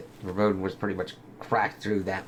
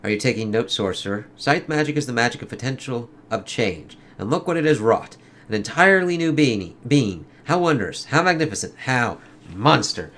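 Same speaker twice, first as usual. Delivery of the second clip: lightly acted comic dialogue, in character; comic characters voiced; 3 semitones higher, 4 dB louder than usual. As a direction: read it like a dramatic comic scene. Reads sorcerer's lines.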